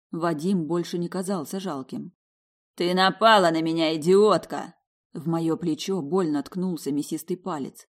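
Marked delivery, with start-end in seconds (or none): 2.8-4.8 loud furious yell; angry accusation. Acted. Vadim poking Dasha, loud angry yell. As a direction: jab the words at her.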